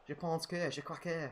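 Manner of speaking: lightly put-on French accent, on a viewer's request; a mild schoolboy French accent. Shown as a demonstration. Answering a viewer's question with a mild French accent. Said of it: "it's in a French accent".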